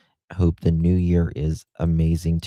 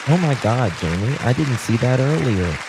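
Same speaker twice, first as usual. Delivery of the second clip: higher-pitched, amazed gratitude; real surprise; 4 semitones higher than usual. Real, not acted. Host to friend who gifted fifteen memberships, delighted surprise. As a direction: gasp out thanks, astonished by a gift.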